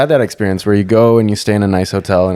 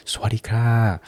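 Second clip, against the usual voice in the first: mock Thai shop greeting; 3 semitones higher, 6 dB quieter, slower than usual.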